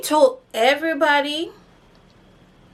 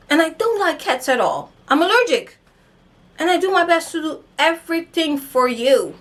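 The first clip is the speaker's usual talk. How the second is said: put-on aggrieved girlfriend; 3 semitones higher than usual. Listing her virtues to him.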